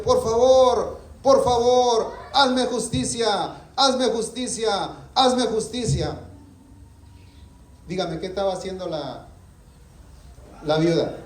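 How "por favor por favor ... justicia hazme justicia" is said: high, slow pleading widow; desperate widow pleading. Retold or imitated. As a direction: beg the judge, stretching each plea. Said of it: "le decía".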